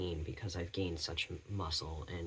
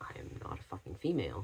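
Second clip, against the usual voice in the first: quiet, private mutter under the breath. Retelling a reply to an older guy at a cafe: muttered under breath. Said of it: "under my breath, I was saying".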